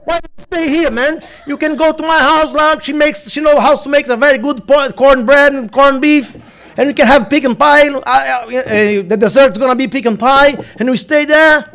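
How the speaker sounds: a hint of a friendly American joker; joking officer's invitation. Officer inviting the speaker home instead, lightly amused. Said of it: "Aí ele olhou pra mim e disse".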